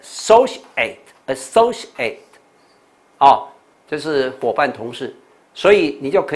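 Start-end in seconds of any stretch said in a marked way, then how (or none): 0.0-2.2 associate higher and slow, leaning on SO; high, deliberate model of associate; marked word stress. Shown as a demonstration. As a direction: hammer the stressed syllable in associate, taking it slowly. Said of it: "这重音都在这边".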